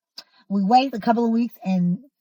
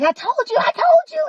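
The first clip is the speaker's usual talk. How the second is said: told you so; 3 dB louder than usual. Retold or imitated. His mom gloating on phone.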